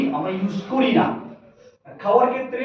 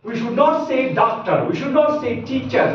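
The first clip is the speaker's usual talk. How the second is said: 1 slow teaching emphasis; 4 semitones higher, much slower than usual. Shown as a demonstration. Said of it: "আমাদের বলতে হবে".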